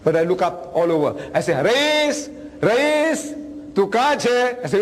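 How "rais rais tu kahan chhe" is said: playful calling. Retold or imitated. Grandpa calls grandson in hide-and-seek.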